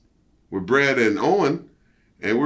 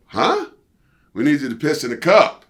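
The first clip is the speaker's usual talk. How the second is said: retold disbelief; 4 semitones higher, 5 dB louder than usual. Retold shock at drug test.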